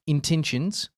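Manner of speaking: "Intentions" in a light Australian accent, ending on a rise. Shown as a demonstration. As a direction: say "Intentions" the Aussie way, with an upward lilt. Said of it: "hard not to say that with a fucking Australian accent".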